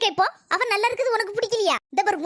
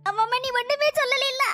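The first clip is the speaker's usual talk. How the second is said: higher, mocking sarcastic retort; 5 semitones higher than usual. Mother-in-law mocks her daughter-in-law's denial, sarcastic. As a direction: twist the words back at her, mocking.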